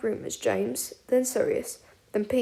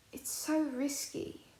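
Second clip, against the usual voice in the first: quiet worry; 3 semitones higher, 11 dB quieter, much slower than usual. A narrator's reading. Remus worried, softly.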